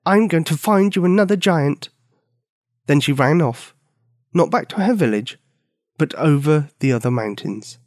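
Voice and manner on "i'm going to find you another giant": declaring. A narrator's reading. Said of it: "she declared".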